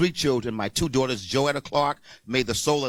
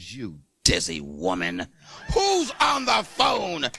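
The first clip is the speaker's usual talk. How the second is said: gruff retort; 3 semitones higher, slower than usual. Retold or imitated. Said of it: "I said".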